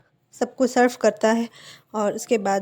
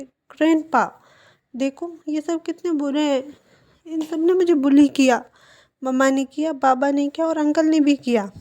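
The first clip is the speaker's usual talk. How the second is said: whiny tattling; 4 semitones higher than usual. Acted. Princess complains to grandpa.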